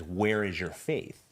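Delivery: a slow, gentle question; gently. Retold or imitated. Jesus questioning frightened disciples, gently and slowly. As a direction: ask it slowly and kindly, lightly voiced. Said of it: "he gently says".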